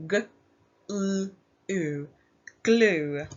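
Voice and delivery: each sound of glue said apart, then blended; sounding out letters. Shown as a demonstration. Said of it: "Let's pinch your sounds".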